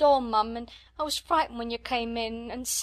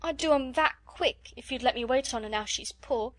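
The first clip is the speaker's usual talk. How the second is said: higher, louder maid pleading through tears; scullery maid begging to serve Sarah; tearful begging; 5 semitones higher, 3 dB louder than usual. A narrator's reading. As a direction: beg higher, half crying.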